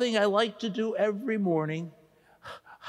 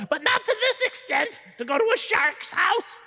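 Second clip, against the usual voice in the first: incredulous; 11 semitones higher than usual. Acted. Incredulous at shark visit.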